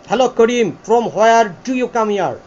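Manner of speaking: slow, fully sounded British accent demo; British "ta-ta system" accent. Shown as a demonstration. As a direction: spell out "from where do you come here" slowly in a British style. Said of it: "এটা হচ্ছে টাটা system".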